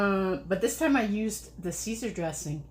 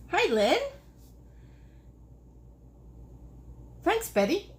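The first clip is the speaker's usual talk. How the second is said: excited greeting; 10 semitones higher than usual. Real, not acted. Greeting live viewers.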